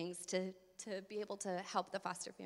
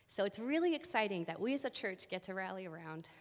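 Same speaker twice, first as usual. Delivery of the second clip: out of breath. Real, not acted. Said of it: "sorry, I'm out of breath".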